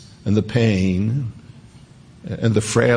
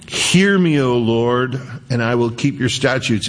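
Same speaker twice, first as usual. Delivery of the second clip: pleading psalmist; 2 semitones higher than usual. Retold or imitated. Psalm cry read aloud.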